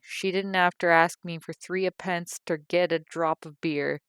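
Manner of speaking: indignant tirade. A narrator's reading. Mother preaching about how a daughter should behave, loud and self-righteous. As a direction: lecture her like a wronged mother.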